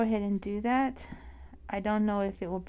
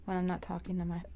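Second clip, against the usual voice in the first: talking through hiccups; words broken by hiccups. Real, not acted. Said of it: "I got the hiccups".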